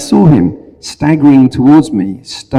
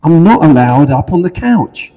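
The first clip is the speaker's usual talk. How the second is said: snooty poodle voice; 6 semitones higher than usual. Acted. Poodle's punchline.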